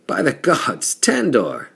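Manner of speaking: high, loud cry of surprise at seeing a friend; surprised shout. Acted. Angus recognizing the giant Tandor, loud and surprised. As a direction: blurt it out, stunned and glad.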